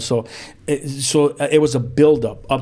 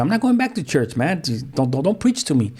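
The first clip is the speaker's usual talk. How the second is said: retold defiant refusal; 3 semitones higher than usual. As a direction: push back, retelling a son's protest. Retold quarrel refusing dad's church plea.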